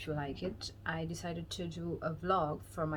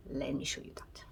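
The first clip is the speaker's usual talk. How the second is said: teasing whisper; 4 semitones lower, 4 dB quieter, faster than usual. Real, not acted. Vlogger leading viewers into her date, whispered. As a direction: drop to a secretive whisper.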